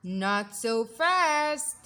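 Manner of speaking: slow, loud menacing teacher's warning; unpleasant hiss. Acted. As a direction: stop them cold, slowly. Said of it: "hissed an unpleasant voice".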